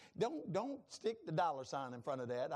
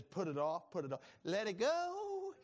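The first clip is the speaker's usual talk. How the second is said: voice of the Lord. Retold or imitated. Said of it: "The Lord says".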